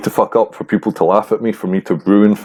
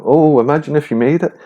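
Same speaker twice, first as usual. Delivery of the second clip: imitating impressed people, pitched high; high-pitched mimicked amazement; mock wonder; 7 semitones higher than usual. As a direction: gush it like a wowed acquaintance, mockingly. Mimics people reacting to his career.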